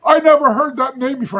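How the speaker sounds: put-on high old man's voice, rising to a shout on karate, then trailing off; the old man at the flea market telling about his father, in an imitated high old man's voice; imitating an old man. Old man answering the narrator.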